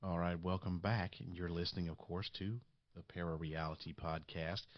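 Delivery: hoarse raspy voice from a cold. Real, not acted. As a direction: talk through a raspy sick throat. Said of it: "Please forgive my raspy voice".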